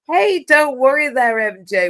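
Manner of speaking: high, loud, chirpy comforting; acted cheery reassurance. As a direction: voice an upbeat helper bucking up a friend. Voicing the AI cheering her up.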